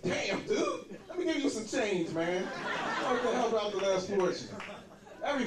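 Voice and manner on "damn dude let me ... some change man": high pitying laugh on "Damn, dude"; lightly voiced pitying stranger; homeless guy. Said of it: "a homeless guy ... was like".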